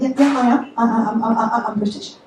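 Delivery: mildly nervous, halting admission; nervous stammer. Retold or imitated. Passenger admits her origin to cab driver, mock nervous stammer. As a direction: stumble hesitantly over the answer.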